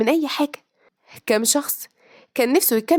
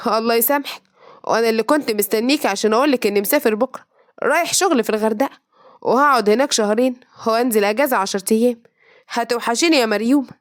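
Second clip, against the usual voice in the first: feigned innocence; 2 semitones lower than usual. Acted. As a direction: play the wounded innocent, gently. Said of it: "اتصنع الوداع والبراءة".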